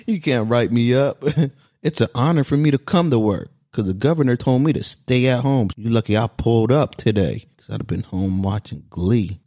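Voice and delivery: laughing, smug gloat; gloating with laughs. Acted. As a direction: laugh it off as untouchable.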